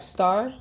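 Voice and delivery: "started" as star, long pause, tid; broken into syllables. Shown as a demonstration. Teacher showing the cut pieces, "started" in two spaced syllables. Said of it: "we put together started".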